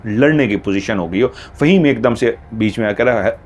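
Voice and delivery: ordinary delivery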